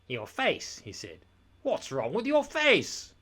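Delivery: high, slow, sly mock concern; scheming lord feigning worry; sly villain. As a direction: purr it like a schemer. Droon inventing a lie.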